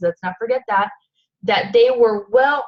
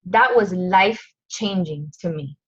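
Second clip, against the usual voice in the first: emotional; 2 semitones lower than usual. Real, not acted. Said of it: "I'm getting emotional".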